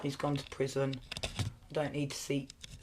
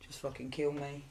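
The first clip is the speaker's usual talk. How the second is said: voicing her daughter; 5 dB quieter than usual. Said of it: "She's like".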